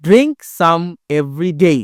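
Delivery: "Drink" and "day" hit with a beat, slow chant; clap-beat on "Drink" and "day", the rest light; stress on drink and day. Shown as a demonstration. Teacher showing pupils where to clap, stress on "Drink" and "day". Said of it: "ড্রিঙ্কে হাততালি হবে আর ডেতে হাততালি হবে".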